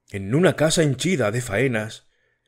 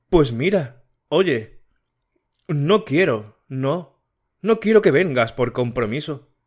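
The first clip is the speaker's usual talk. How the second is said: put-on young woman's voice, lightly higher, anxious; a hint of an anxious girl pleading; Matilde voiced; 4 semitones higher than usual. Matilde questions her cooling fiancé, anxious and lightly higher.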